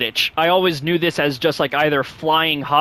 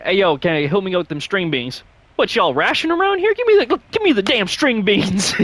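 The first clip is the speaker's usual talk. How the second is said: Ice Cube impression; 3 semitones higher than usual. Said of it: "he was like".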